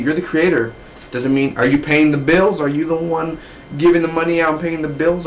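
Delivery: hammed-up scolding to Cameron; mock rant at Cameron. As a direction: lecture her like a fed-up partner. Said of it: "I just wanted to do that".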